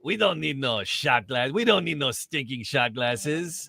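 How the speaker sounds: slow, drawled mock-tough bartender; mock bartender bravado. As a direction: ham it up like a cowboy bartender. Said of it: "I like how she's like".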